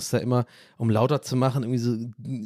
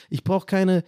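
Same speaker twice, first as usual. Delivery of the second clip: normal talking voice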